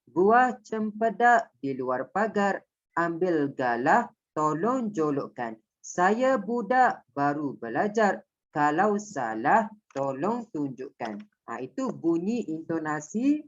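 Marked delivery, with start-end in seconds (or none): 0.1-11.2 slow, lilting pantun chant with rising first lines; sing-song Malay pantun delivery; pantun recitation. Shown as a demonstration. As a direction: recite the pantun the way a teacher models it. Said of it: "intonasi dia akan bunyi macam ni".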